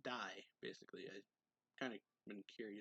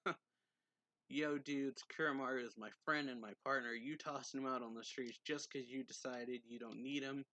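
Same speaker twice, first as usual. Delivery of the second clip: louder at first, mild mock yell; retold yelling; 3 semitones higher, 5 dB louder than usual. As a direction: imitate someone yelling, only half-heartedly. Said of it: "but, like, he's yelling".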